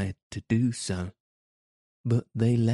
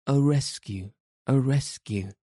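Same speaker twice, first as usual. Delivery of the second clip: shouting; 5 semitones higher than usual. Acted. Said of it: "and some".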